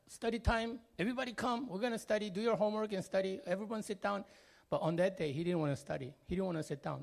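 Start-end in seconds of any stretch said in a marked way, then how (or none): 0.1-4.2 put-on mom rounding up the kids. Mom calling kids to study.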